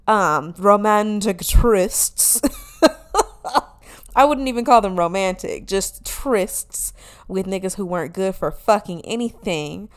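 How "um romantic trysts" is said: coy drawn out. Real, not acted. Coy word, then laughs.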